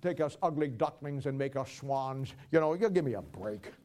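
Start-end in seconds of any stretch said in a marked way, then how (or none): 0.0-2.3 slow, syrupy mock prayer voice; slow mock-saintly plea; mocking flowery prayer. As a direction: parody a pious sweet-talking prayer. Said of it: "they start talking about the God of the flowers".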